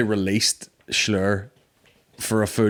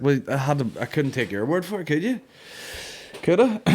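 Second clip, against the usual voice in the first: put-on cheeky kid; 5 semitones higher than usual. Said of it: "And I was like".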